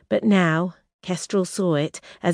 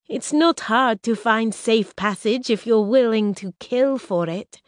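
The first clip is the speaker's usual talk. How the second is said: raised, urgent bargaining princess voice; Risha, proud princess; 6 semitones higher than usual. Acted. Exiled princess tempting her enemies, raised and urgent. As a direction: press the offer, pitched high.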